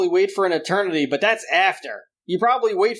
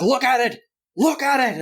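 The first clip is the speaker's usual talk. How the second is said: higher, insistent Bible-thumper rant; imitating a ranting father, raised pitch; crazy Bible thumper; 7 semitones higher than usual. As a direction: wave it like a preacher gone wild. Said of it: "like some kind of crazy Bible thumper".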